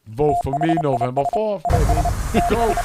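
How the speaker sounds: punchy hyped-up ad read; energy drink ad. Pretend. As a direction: sell it like a loud promo. Mock campaign ad over music.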